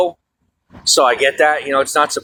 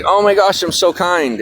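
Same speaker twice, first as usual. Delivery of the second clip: mocking quote; 5 semitones higher than usual. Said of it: "they're like".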